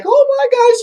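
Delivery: very high, loud excited squeal; hammed-up ecstatic shriek; imitating excitement. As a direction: squeal it like an overjoyed mom. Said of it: "she's, like, getting all excited".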